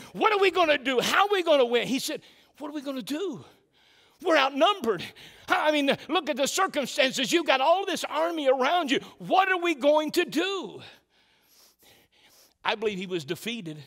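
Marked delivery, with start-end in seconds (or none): 0.1-1.9 confident rally cry, pitched higher; confident servant. Retold or imitated. Preacher voicing the servant as he didn't sound, confident. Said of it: "I don't believe he said". 2.6-10.8 defeated servant. Retold or imitated. Preacher voicing the servant to the prophet, defeated and worried. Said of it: "you can hear defeat in them".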